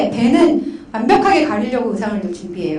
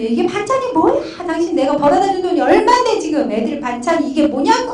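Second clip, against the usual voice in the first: higher-pitched mock outburst; imitating a yelling husband; 5 semitones higher than usual. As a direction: act out an indignant complaint at the dinner table. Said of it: "엄청 소리 지르고".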